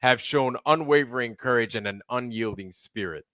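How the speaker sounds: grand ceremonial proclamation; solemn regal knighting. Acted. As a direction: speak like a king knighting someone.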